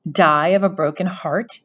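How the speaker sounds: mock-sorrowful parrot of his words; mimicking. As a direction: sneer back the phrase. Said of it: "he mimicked".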